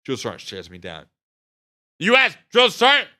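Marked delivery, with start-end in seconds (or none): 2.0-3.1 loud high recruit yell; recruit shout. Retold or imitated. Recruit shouting back at the drill sergeant, loud and high.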